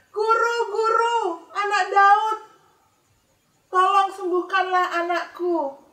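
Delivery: high, loud, slow desperate plea; pleading cry. Acted. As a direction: cry out to the teacher for help. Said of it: "dia teriak-teriak". (ibu memohon sambil berseru keras)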